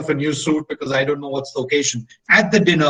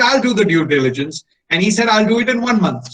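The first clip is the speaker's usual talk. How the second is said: cocky challenge; 4 semitones higher, 3 dB louder than usual. Retold or imitated. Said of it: "get under the skin of the Germans".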